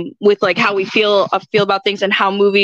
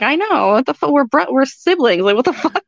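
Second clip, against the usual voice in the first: higher-pitched comic protest; mock exasperation; 4 semitones higher than usual. Sibling retelling a reply to lookalike comments, exasperated. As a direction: playfully protest an obvious resemblance.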